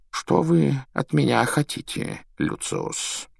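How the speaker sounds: polite, name dropped to a hush; calm courtesy with steel; Dumbledore courteous. A narrator's reading. Dumbledore asking Malfoy, polite but cold. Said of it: "спросил Дамблдор".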